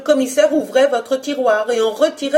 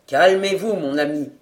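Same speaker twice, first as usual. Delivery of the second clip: reassuring; 3 semitones lower than usual. Acted. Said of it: "à la fois énergique et amical".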